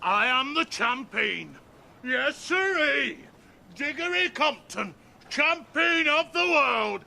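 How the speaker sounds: slow, drawn-out champion's boast; triumphant crowing. Real, not acted. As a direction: crow it slowly, climbing to a high whoop. Crowing after winning the bout.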